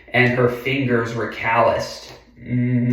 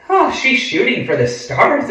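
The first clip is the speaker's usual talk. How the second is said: high, delighted cheer for her; excited cheer; 11 semitones higher than usual. Real, not acted. Reader cheers on Jackie.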